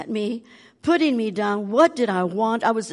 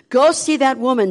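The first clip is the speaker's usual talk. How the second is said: inner voice; 4 semitones higher, 6 dB louder than usual. Retold or imitated. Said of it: "What was this voice telling me".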